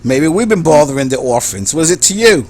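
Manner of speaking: British gang member talking back; sleazy British accent. Acted. Gang member answering the strangers, sleazy British accent. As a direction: play a sleazy British thug. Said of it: "a sleazy British accent".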